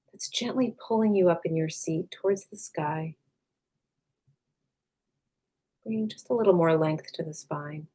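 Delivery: calm, unhurried meditation voice with long pauses; guided meditation. Acted. Meditation teacher leading listeners to release tension, calm and unhurried. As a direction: gently guide them inward, leaving space after each phrase.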